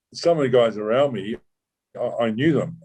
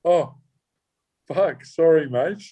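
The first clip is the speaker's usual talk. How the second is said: higher, caught-out apology; the officer apologises to the undercover, mock sheepish and higher; sheepish realisation; 7 semitones higher, slower than usual. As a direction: imitate a man realising his blunder. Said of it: "And he goes".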